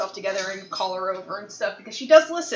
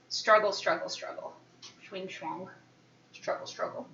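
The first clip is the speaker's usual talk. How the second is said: soft singsong; 4 semitones lower, 7 dB quieter than usual. Real, not acted. Narrating cat struggling softly.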